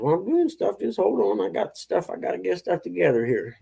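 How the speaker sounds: mock defensive. His own retort retold.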